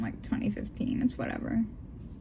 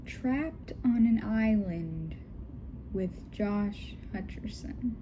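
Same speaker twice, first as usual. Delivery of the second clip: dramatic title read; 6 dB quieter, slower than usual. Acted. Reads out the fanfic title.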